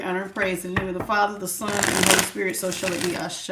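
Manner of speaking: a calm spiritual invocation; opening prayer. Acted.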